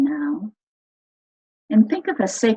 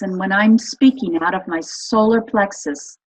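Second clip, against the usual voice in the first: confident voice. Shown as a demonstration. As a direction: speak as if you fully believe yourself. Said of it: "think of confidence".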